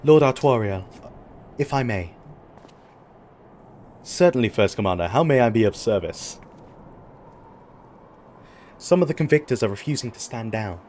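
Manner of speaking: lightly voiced formal knight; noble knight NPC. Knight addressing his ally, lightly formal noble voice. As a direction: read it like a courtly knight, lightly. Voicing game NPC dialogue at length.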